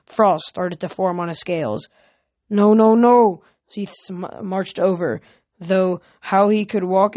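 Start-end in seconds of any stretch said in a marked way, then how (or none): 2.5-3.4 loud, drawn-out string of refusals; raised voice, higher than the narration; alarmed objection. A narrator's reading. Zeus stops the dragon coming in, loud objection.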